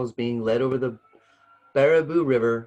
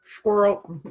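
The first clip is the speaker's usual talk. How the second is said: high, loud echo of Squirrel; a distracted yelp, just joking; mock distraction; 10 semitones higher, 6 dB louder than usual. Echoing the squirrel joke.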